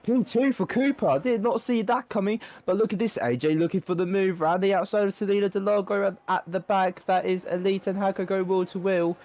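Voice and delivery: high, fast, thrilled race calling; excited commentary. Real, not acted. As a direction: call the action with rising excitement. Race commentator reacting to overtakes.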